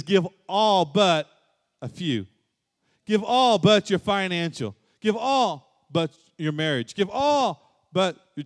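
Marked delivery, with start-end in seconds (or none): 0.0-2.3 a half-hearted take on the command that trails off; the wrong version, tossed off lightly; mock misquote. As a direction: say it like a reluctant bargain. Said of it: "No, he says".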